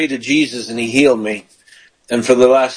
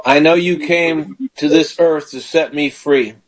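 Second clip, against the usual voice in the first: leading a prayer. Shown as a demonstration. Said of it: "just say this".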